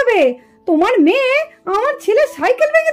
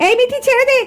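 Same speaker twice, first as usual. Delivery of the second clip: alarmed shout. Acted. Banti's mother stopping the children's fight, alarmed shout. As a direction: yell at her to let go.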